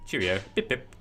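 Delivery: hammed-up British catchphrases; lightly mock the British. British host teasing British viewers, mock British. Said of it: "I'm mocking British people".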